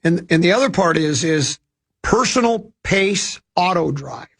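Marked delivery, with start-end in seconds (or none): 2.0-4.3 ad read. Acted. Ad read of mower endorsement.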